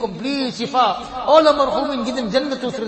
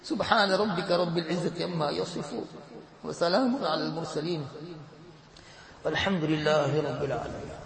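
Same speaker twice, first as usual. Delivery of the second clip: recited prayer. Acted. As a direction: settle into a devout closing recitation. Recited closing dua, partly chanted.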